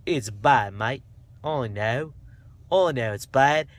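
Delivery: hammed-up Aussie, badly faked; playful attempt at Australian; dodgy Australian accent. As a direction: put on a rough Australian accent. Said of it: "I might be doing an Australian accent".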